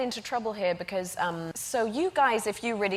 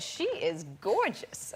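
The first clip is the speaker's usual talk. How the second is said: slow, imitated Southern drawl; Southern farm accent; 4 dB quieter, slower than usual. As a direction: imitate a Southern nurse cooing, stretched out. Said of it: "the farm accent sounds a little bit Midwest and Southern".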